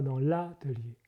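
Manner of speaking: ATELIER with its opening A leaned on; stress on first A. Shown as a demonstration. Singer shows where Russian would accent it, stress on A of l'atelier. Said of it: "l'accent sera sur le A".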